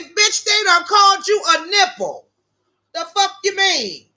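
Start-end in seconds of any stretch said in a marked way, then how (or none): 0.0-2.3 mock shout of the news, higher; teasing shout at her friend. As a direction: call it out, higher and punchy. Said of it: "I say".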